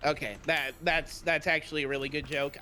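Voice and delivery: sincere praise that comes out deadpan; seemingly sarcastic. Real, not acted. Co-host praising a joke without laughing, deadpan. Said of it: "I may seem like I'm being sarcastic".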